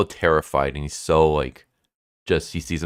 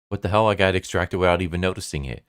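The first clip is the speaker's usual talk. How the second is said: startled; 4 semitones higher, faster than usual. Acted. Demon finding himself outside the girl's body, startled. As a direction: blurt it out in surprise. Demon shocked at being extracted.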